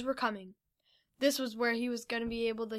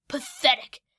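sneer; 6 dB louder than usual. Acted. Villain sneers.

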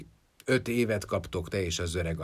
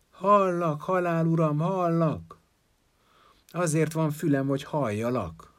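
shouting back; 9 semitones higher, 5 dB louder than usual. A narrator's reading. Jágub answers Death shouting outside.

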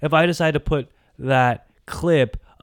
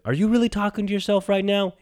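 mock other voice; 8 semitones higher than usual. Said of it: "Yes, I am talking to myself".

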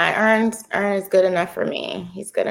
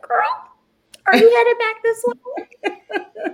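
put-on young woman calling out; 12 semitones higher than usual. Retells a girl calling to her.

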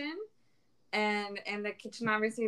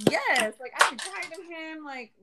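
high, exasperated retold complaint; fed-up retort; 7 semitones higher than usual. Kitchen worker answers a coworker about yelling at him, retold exasperation. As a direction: re-enact venting, voice pitched up.

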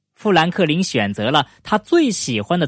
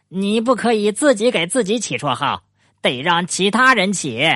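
lightly voiced beaver, higher pitch; objecting friend; 6 semitones higher than usual. A narrator's reading. Beaver corrects Franklin on nicknames, lightly voiced objection. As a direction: raise the pitch to lay down a rule.

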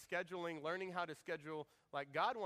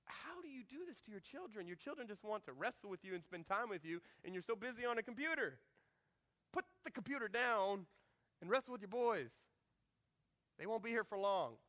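God's gentle rebuke; 3 semitones higher than usual. Retold or imitated. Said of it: "God will convict me and go".

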